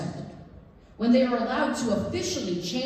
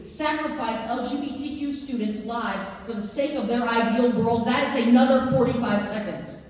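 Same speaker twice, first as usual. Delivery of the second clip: rising impassioned appeal; 3 semitones higher, 5 dB louder than usual. Real, not acted. Impassioned public comment at board.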